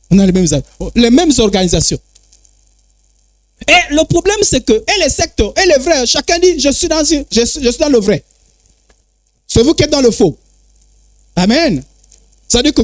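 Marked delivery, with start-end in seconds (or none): none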